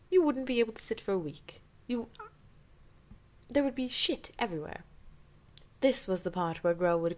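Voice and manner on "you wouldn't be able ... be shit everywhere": outraged listing. Real, not acted. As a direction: tick off the problems, appalled. Reader lists objections, outraged.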